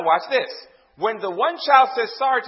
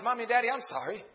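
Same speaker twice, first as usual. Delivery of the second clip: imitating a child's soft, meant apology; gentle apology to parents, lightly acted; sincere apology; 2 semitones higher, 6 dB quieter than usual. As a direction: apologize softly and earnestly, as a child would. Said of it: "did you know they meant it?".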